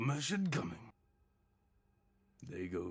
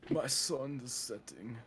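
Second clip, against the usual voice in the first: slow, fading last words; mild mock dying gasp; dying knight. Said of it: "His death sound".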